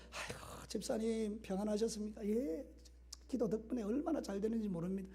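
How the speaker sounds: soft, gentle greeting between church friends; 부드럽게 덕담하듯; kind exchange. Shown as a demonstration. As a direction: pleasant small talk, voiced softly. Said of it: "서로 덕담도 오고 가고 막 이래야 돼".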